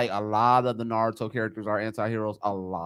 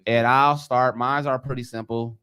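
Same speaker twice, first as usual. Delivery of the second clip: muffled behind a mask; talking through a face mask; 3 semitones lower than usual. Real, not acted. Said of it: "but excuse the mask".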